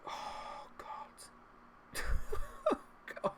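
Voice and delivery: breathless whisper of dismay; whispered despair. Real, not acted. Gamer despairing at his team, whispered. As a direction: whisper it in disbelief.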